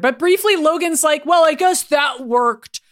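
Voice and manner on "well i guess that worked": mock Logan shout. Voicing Logan after the explosion.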